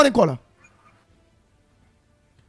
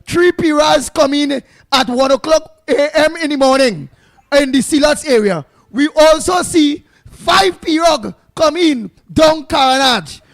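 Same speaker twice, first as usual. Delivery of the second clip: mock boss man caller. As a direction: play the boss man phoning in to complain, hammed up. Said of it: "boss man will call in".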